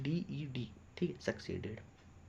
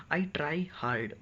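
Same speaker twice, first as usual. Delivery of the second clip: slow dictation; much slower than usual. Shown as a demonstration. Teacher dictates slowly.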